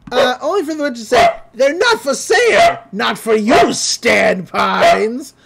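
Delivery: high, loud, eerie witch voice. Retold or imitated. Witch refusing to sell to Stan Pines, eerie and loud. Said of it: "she's like".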